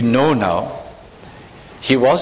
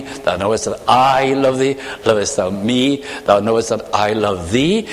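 lower, each reply weighted on thou and I; a tender, sentimental reading of the dialogue; sentimental emphasis; 3 semitones lower than usual. Shown as a demonstration. Preacher demonstrating the sweet reading, gently stressed. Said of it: "That emphasis is very lovely".

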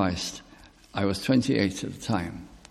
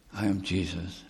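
"I am Jesus." repeated much softer, hushed; 4 semitones lower, 8 dB quieter than usual. Shown as a demonstration. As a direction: drop "I am Jesus." to a hush.

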